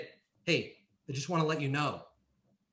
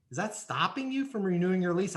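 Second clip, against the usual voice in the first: mildly incredulous; 3 semitones higher, 3 dB quieter than usual. Shown as a demonstration. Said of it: "throw it out like this".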